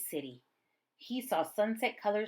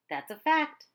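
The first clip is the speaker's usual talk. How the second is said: cheery blind man; 8 semitones higher, 6 dB louder than usual. Acted. Blind man answers boy.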